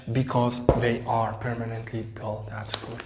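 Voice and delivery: slow, careful reading aloud. Shown as a demonstration. Teacher reads the text slowly for pupils. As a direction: read it out word by word. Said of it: "teacher reads slowly".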